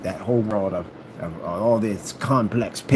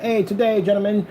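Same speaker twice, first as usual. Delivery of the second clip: lightly raised, formal gentlemanly voice; a hint of addressing gentlemen formally; proper business voice; 11 semitones higher than usual. Mimicking his proper talk to the street friends, formal voice. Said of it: "you talk like this".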